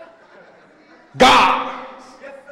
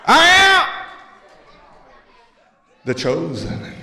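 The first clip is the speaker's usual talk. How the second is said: triumphant cry; 3 semitones higher than usual. Pretend. Proclaiming as the chosen.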